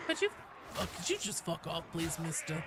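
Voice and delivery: put-on quiet little old lady voice; a lightly voiced grumpy granny. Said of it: "The old lady voice".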